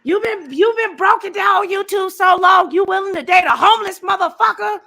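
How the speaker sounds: high, loud mock scolding; scolding friend. Friend Quadi yelling at Nicole over dating a homeless man, loud mock scolding. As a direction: ham up a friend yelling in disbelief. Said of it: "She gonna be like".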